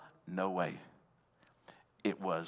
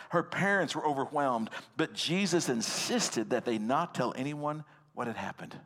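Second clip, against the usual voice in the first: emphatic, raised-pitch Bible storytelling; dramatic scripture reading; 3 semitones higher than usual. A narrator's reading. Preacher telling the congregation how Jesus reached the house, dramatic reading.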